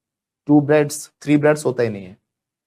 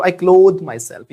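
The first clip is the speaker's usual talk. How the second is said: slow drill phrase; 5 dB louder, much slower than usual. Shown as a demonstration. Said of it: "ये भी कह सकते हैं".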